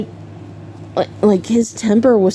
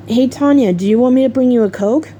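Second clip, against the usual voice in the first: higher, quick, casual offer; a hint of hospitable mother; lightly voiced friendly mom; 4 semitones higher, faster than usual. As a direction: imitate a mom checking in. Mom's friendly offer, retold.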